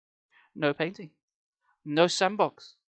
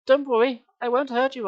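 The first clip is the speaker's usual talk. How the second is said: reassuring; 7 semitones higher, 6 dB louder than usual. Retold or imitated. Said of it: "I assured them".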